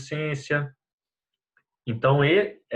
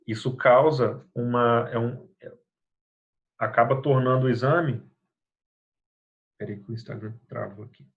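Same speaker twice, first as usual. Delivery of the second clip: choppy, breaking-up audio; audio cutting out; 2 semitones lower than usual. Real, not acted. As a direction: voice dropping out on a bad connection. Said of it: "Seu áudio tá ruim".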